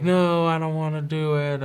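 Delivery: retold tearful protest; imitated tearful whine. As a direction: imitate a crying kid digging in. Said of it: "And he's crying".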